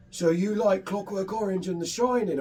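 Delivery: lightly voiced old film man; imitating elderly man. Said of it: "took my hand and goes".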